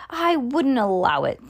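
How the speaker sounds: ordinary delivery, nothing marked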